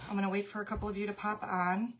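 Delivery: breathless from running upstairs; puffing between words, rushed; out of breath. Real, not acted. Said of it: "Sorry, I'm out of breath".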